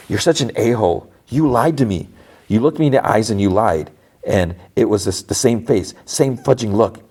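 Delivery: a touch of indignation; mild accusation. Retold or imitated. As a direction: act out her hurt accusation, not shouted. Retold confrontation over a lie.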